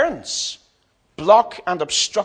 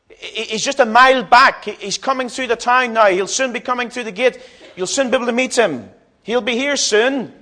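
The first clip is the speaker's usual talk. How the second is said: higher, eager passing on of news; spreading excited rumour; 6 semitones higher than usual. Acted. Pilgrims spreading word that Jesus is coming, excited. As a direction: pass the news along with mild excitement. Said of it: "the rumors would have spread up and down".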